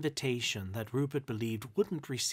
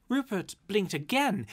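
ordinary delivery, nothing marked

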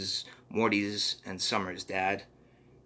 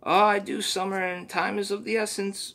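very high cartoonish creature voice; Mister Poopy Butthole; 10 semitones higher, 3 dB louder than usual. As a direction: chirp it out like a goofy sidekick.

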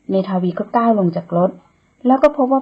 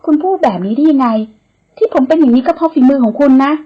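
louder, higher squabbling back and forth; bickering; 4 semitones higher, 5 dB louder than usual. Acted. Woman and man bicker over the wound, heated. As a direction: argue back without backing down.

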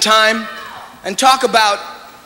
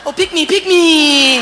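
higher, slow, laughing plea; eager girl begging; 7 semitones higher, slower than usual. Retold or imitated. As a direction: beg to be chosen for the dance. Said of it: "act like this".

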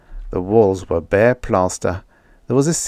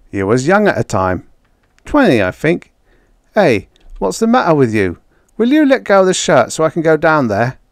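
a louder, higher rough-edged convict; gruff convict Jake; 6 semitones higher, 6 dB louder than usual. Acted. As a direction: play the impatient cellmate. Convict Jake voiced in dialogue.

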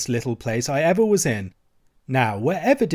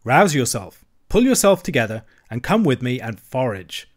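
hearty rallying. Acted. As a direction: shake a friend out of gloom. Rat rousing despondent Mole.

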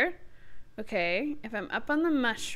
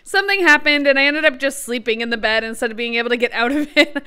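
ordinary talk, nothing marked

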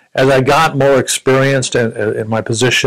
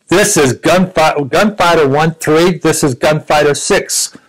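slow radio call; 5 semitones higher, slower than usual. Retold or imitated. Captain's radio call retold emphatically.

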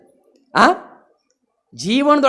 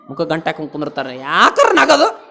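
laughing; 9 semitones lower, 3 dB quieter than usual. Real, not acted. Laughing about glum faces.

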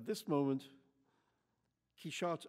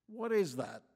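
louder, higher challenging demand; attacking; 6 semitones higher, 5 dB louder than usual. A narrator's reading. Hostile camper confronts Quichotte at the trestle table, attacking. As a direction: pounce with the question. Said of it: "the lady went on the attack".

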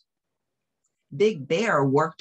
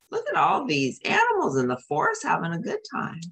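excited; 10 semitones higher, much faster than usual. Real, not acted. Reader exclaims to children.

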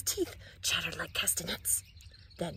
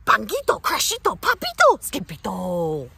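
calling out; 4 semitones higher, 9 dB louder than usual. Acted. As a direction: call each name across the house. Mother calls out children's names.

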